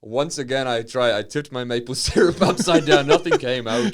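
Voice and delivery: loud, high, hammed-up Fargo accent. Northerner complains about frozen syrup, Fargo accent. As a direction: exaggerate the Fargo vowels, half laughing. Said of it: "talk like Francis McDormand from Fargo".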